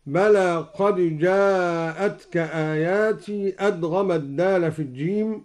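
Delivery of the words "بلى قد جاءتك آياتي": slow, chanted tajweed recitation; Quran recitation. Shown as a demonstration. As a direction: recite with measured melody. Recites verse before demo. (تلاوة مجودة)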